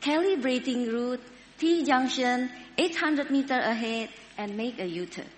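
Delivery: lightly sweet, even navigator tone; a touch of sweetness, like a patient sat-nav; sweet GPS voice. Retold or imitated. Preacher imitating a patient GPS rerouting the lost driver, lightly sweet. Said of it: "it would say ever so sweetly".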